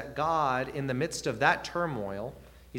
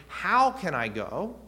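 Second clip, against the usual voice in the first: slow, higher, louder question rising at the end; sincere question; 5 semitones higher, 5 dB louder than usual. Shown as a demonstration. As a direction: genuinely ask for guidance, drawing it out. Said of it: "it's a little bit of a question".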